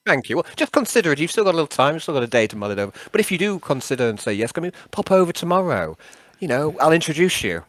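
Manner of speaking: lightly voiced old-chap character; halting, over-polite character request; Nixius, politely wheedling. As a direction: coax a pal into minding the team. Nixius persuades Yarn.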